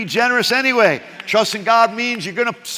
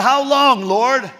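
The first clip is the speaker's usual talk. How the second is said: louder and higher, frustrated and pushy; mock angry prayer; 4 semitones higher, 4 dB louder, slower than usual. Preacher voicing David mad at God, angry demand. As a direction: demand it of God, half-joking. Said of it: "He's mad at God".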